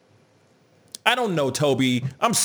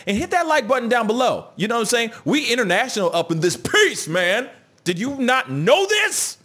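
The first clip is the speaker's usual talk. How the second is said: excited shouting; 10 semitones higher than usual. Real, not acted. Host hypes the channel to viewers, excited shouting. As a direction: pump up the viewers. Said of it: "I'll stop screaming".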